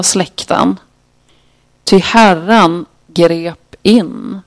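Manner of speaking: measured psalm reading with pauses between lines; understated recitation of a lament; scripture reading. Acted. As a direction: read the psalm out deliberately, verse by verse. Reads the psalm's later verses.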